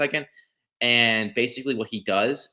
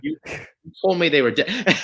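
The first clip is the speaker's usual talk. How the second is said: higher, louder accusing cry; Vader's outraged retort, pitched high and loud; betrayed Vader; 7 semitones higher, 5 dB louder than usual. Retold or imitated. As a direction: hurl the accusation with a raised voice. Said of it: "It's like".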